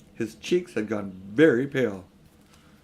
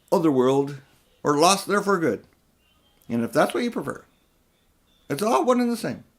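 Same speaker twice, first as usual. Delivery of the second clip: raised, higher mocking uncle; taunting uncle; 4 semitones higher, 3 dB louder than usual. Uncle shaming Diggory into going, taunting. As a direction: goad the boy with guilt.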